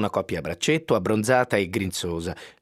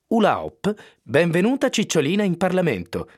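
higher, bright chant of a placard slogan; lightly raised cheering read; 7 semitones higher than usual. Pretend. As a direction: call it out like a rally cheer.

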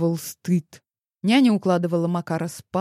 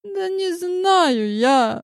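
high, slow whine; drunken whine; 12 semitones higher, 4 dB louder, much slower than usual. Acted. Drunk woman whining to Grigory that she doesn't know, slow. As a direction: stretch it out, helpless and drunk.

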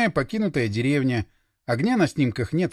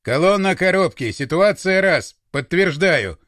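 loud, measured radio message; radio report; 4 dB louder than usual. A narrator's reading. Commander reporting to the convoy by microphone, radio report. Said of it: "сообщил в микрофон".

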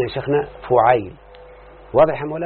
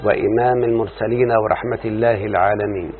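opening prayer; 2 semitones lower than usual. Acted. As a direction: recite the blessing calmly, devoutly. (دعاء افتتاحي بصوت خاشع)

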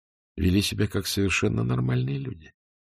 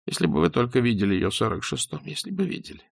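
tearful plea; 3 semitones higher, faster than usual. Acted. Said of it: "Гилевич заплакал".

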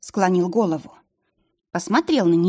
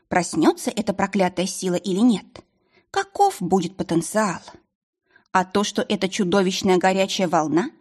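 ordinary delivery, nothing marked

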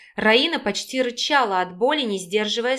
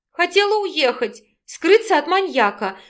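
higher, blurted in a rush; 7 semitones higher, 3 dB louder than usual. A narrator's reading. Raina admits fleeing from the maniac, blurted out. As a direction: let it burst out before thinking. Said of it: "выпалила несостоявшаяся беглянка".

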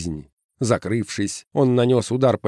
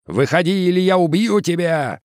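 furious threat; 9 semitones higher than usual. A narrator's reading. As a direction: scream the threat. Uncle John threatening.

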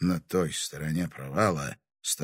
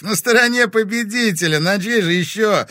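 loud, much higher jeering call; mocking shout; 12 semitones higher, 10 dB louder than usual. A narrator's reading. Anton mockingly shouts back at the sheriff. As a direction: jeer it out. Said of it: "насмешливо выкрикнул Антон".

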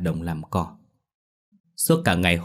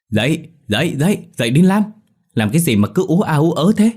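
scolding mother; 8 semitones higher, 6 dB louder than usual. A narrator's reading. Mother wakes daughter scolding.

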